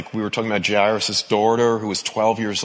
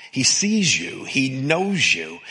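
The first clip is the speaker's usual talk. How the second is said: tender assurance; slower than usual. Real, not acted. Repeated assurance, slowed.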